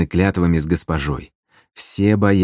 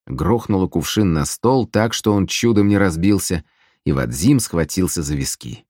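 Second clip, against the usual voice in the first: ordinary delivery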